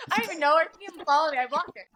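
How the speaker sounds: high-pitched, laughing confession; laughing, high-pitched self-justification; amused confession. Real, not acted. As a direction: confess it through a laugh, voice shooting up. Amused confession of blocking someone.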